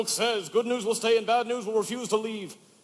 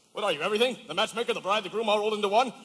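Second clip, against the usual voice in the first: shouted tirade; 2 semitones higher, faster than usual. Acted. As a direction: berate the tailor, building to a shout. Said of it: "Please don't shout at me".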